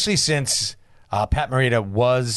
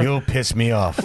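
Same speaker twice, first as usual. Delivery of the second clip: put-on Japanese accent; 4 semitones lower, slower than usual. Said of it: "the fake Japanese accent".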